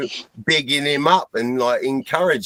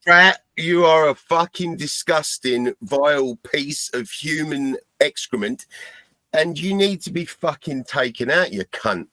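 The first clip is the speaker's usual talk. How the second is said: angry rant; 3 semitones higher than usual. Real, not acted. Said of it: "give Pratt a personal message".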